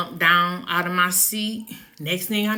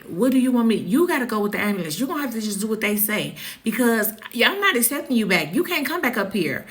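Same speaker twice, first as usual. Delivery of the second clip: brisk scolding; 4 semitones higher, much faster than usual. Retold or imitated. Supervisor scolding, voiced.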